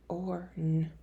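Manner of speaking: soft whisper, sounding the word out; whispered segmenting of Torn. Shown as a demonstration. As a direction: breathe it out under your breath. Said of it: "if you need to slide the sounds".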